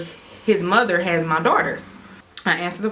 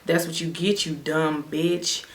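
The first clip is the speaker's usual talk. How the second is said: low mocking taunt; 3 semitones lower, 6 dB quieter than usual. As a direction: drag it out low and nasty. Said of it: "And he's like".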